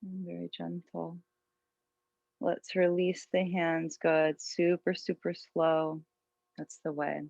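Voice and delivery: calm, unhurried yoga teacher voice; guided meditation. Real, not acted. Yoga teacher settling students into an intention, guided meditation. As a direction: guide them gently inward, leaving long pauses.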